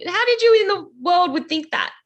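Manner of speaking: high, incredulous question; amazed. Real, not acted. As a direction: ask in disbelief, pitch way up. Interviewer amazed by odd technique.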